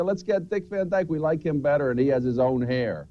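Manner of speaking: a hint of a producer brushing him off; network exec voice. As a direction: play the dismissive TV boss, lightly. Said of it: "they said".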